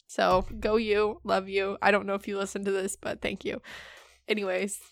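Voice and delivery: tipsy, slurring a little. Real, not acted. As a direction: talk like you've had a few. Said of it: "she's getting drunker and drunker by the minute".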